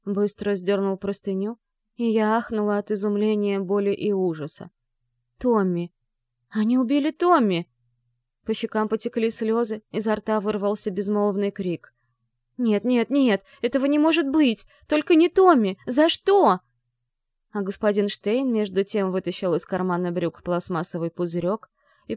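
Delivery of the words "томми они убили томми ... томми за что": high, loud anguished cry; desperate crying. Acted. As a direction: cry out in disbelief and grief. Finds her dead friend.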